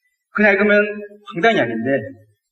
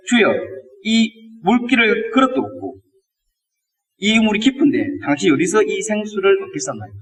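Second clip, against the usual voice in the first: baffled, slightly sarcastic. Retold or imitated. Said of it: "황당해하면서 약간 빈정상한 투로".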